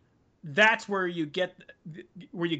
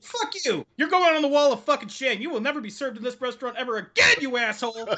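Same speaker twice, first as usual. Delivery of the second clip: mock furious owner; 3 semitones higher than usual. Owner throwing a rude customer out, mock furious yell. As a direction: bark him out of the shop, half-joking. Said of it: "It's like".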